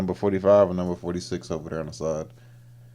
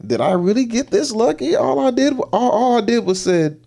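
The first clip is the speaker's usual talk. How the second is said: loud, high mock elation; amazed glee; 6 dB louder than usual. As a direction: marvel at your luck at full volume. Acting out man amazed by luck.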